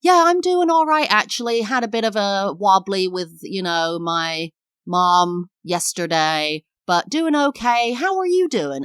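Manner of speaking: mock bubbly over-share; over-sharing chirpy reply. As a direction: gush it out like you mean every word. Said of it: "They don't want to hear".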